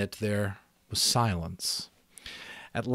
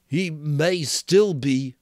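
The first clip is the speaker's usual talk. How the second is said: lightly voiced boy, a bit higher; Piggy's voice; 7 semitones higher, 7 dB louder, slower than usual. Piggy answering Ralph, a lightly voiced boy.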